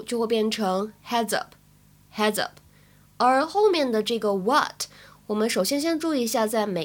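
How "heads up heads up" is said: "heads up" run together as "head-zup"; linked "heads up". Shown as a demonstration. Teacher shows learners the linking, "heads up" said as one word. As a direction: carry the z of "heads" straight into "up". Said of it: "up可以连读".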